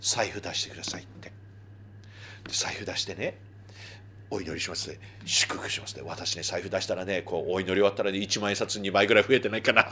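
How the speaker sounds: softly, as if sharing a secret; hushed confiding. Real, not acted. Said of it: "あんまり大きい声で言えないけど". (ひそひそ声で内緒話のように)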